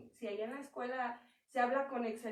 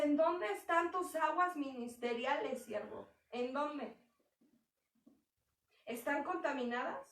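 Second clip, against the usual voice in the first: stern demanding God. Acted. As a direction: press the servant with hard questions. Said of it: "Pero no".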